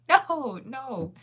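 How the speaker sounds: loud, high protest, then easing; emphatic denial. Real, not acted. Denies teasing about K-pop boy.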